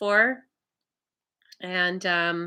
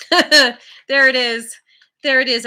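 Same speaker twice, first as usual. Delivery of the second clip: laughing; 3 semitones higher, 8 dB louder than usual. Real, not acted. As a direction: laugh through the words as they land. Laughing as a card is revealed.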